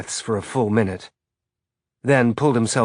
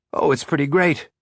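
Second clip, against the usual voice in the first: forced enthusiasm; 5 semitones higher than usual. Acted. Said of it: "Baja said with forced enthusiasm".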